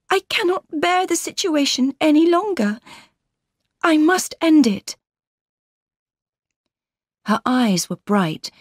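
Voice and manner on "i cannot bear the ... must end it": determined energy. A narrator's reading. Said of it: "she spoke with great energy".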